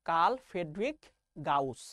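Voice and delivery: "কার্ল ফ্রেডরিক" rising, then "গাউস" low after a pause; name pronunciation demo. Shown as a demonstration. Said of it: "নাম উচ্চারণ করো দেখি".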